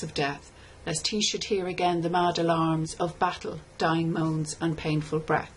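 a steady, solemn recitation; a plain-voiced reading of a war poem. Shown as a demonstration. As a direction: read it through evenly, like an elegy. Third reading for language details.

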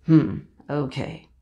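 a hint of a defeated rooster; rooster thinking it over. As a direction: mull it over like a grudging bird. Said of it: "he kind of was like".

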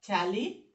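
teacher chopping "টেলিভিশন" into te-li, vi, shon; broken into syllables. Shown as a demonstration. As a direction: say "টেলিভিশন" syllable by syllable, pausing between each. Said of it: "syllable ভাঙলে কি হবে বলো তো".

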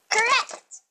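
high loud cheerful cheer; excited announcement. Real, not acted. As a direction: shout it like a game-show host. Announcing right guess.

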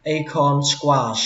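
"Acorn squash" slow, up on "A", down on "corn"; up then down. Shown as a demonstration. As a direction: stress the first syllable of "Acorn", fall after. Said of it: "các bạn lên giọng âm đầu tiên".

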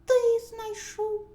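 high, loud mouse cry; loud shouting. A narrator's reading. Mice answer rooster's question, loud shouting. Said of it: "голосно закричали".

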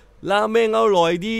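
put-on high, loud, slow Thai hawker's call in a Japanese accent; ตะโกนขายสำเนียงญี่ปุ่น; Japanese-accented Thai shout. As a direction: call out the ramen like a Japanese vendor mangling Thai. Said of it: "ตะโกนขายเป็นภาษาไทย แต่พูดแบบสำเนียงญี่ปุ่น".

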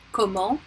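Comment ending on a nasal vowel, T silent; silent final T. Shown as a demonstration. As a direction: say Comment without sounding the T. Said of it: "same thing".

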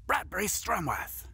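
upbeat TV host read; presenter voice. Acted.

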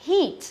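emphatic long-i "Heat"; long vowel demo. Shown as a demonstration. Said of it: "âm dài phải đọc là gì?".

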